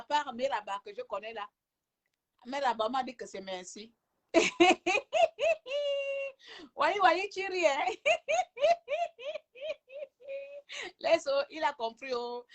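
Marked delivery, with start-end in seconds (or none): 4.3-6.7 long high peal of laughter. Real, not acted. Laughing that thank-you turned out to mean something else, high laugh. 7.8-9.4 high laugh. Real, not acted. Laughing with the other person.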